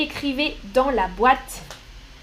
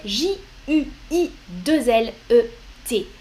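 J U I deux L E T spelled letter by letter; spelling aloud. Shown as a demonstration. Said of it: "on parlait du mois de juillet". (épeler lettre par lettre)

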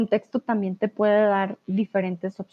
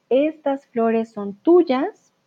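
slow dictation reading; 2 semitones higher, much slower than usual. Shown as a demonstration. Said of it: "Aquí estamos practicando".

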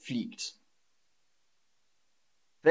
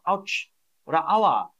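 mock ouch; 5 semitones higher than usual. Shown as a demonstration. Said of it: "sagt man auch".

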